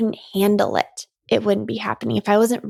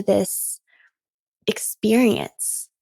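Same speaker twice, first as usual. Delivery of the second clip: whispered; much slower than usual. Real, not acted. Whispered key word.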